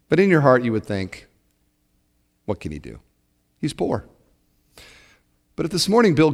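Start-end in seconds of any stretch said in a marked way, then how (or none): 2.4-4.1 muttered thought. Retold or imitated. Inner thought, dismissive.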